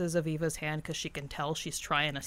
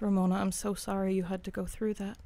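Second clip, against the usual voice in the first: compassionate. Acted. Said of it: "with all the compassion in the world".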